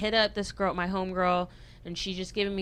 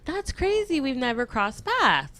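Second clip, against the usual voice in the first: high quoted voice; 6 semitones higher than usual. Retold or imitated. Quoting the other violinist.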